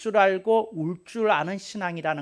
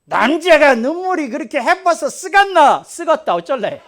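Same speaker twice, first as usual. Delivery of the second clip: 높고 크게 호통치는 무뚝뚝한 경상도 사내; 사투리로 큰소리치며 따지듯; 8 semitones higher, 11 dB louder than usual. Retold or imitated. (우는 남자를 나무라는 경상도 사투리 호통)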